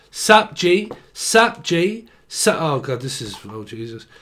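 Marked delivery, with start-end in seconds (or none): 0.1-2.6 roadman greeting. Retold or imitated. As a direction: hail your mates like a London roadman. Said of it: "Why do people talk like that?".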